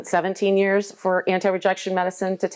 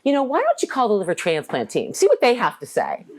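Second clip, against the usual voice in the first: higher-pitched, snippy retort, a touch mocking; obnoxious; 5 semitones higher than usual. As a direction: toss it at him like a defiant patient. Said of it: "I said to him so obnoxiously".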